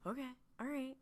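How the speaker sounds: a small, meek okay; reluctant agreement. Acted. Dean giving in to Sam's instructions, reluctant agreement.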